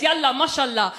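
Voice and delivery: Arabic accent on "Yalla, mashallah"; demonstrating how Arabic sounds, firm and full-voiced. Shown as a demonstration. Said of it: "Arabic sounds like this".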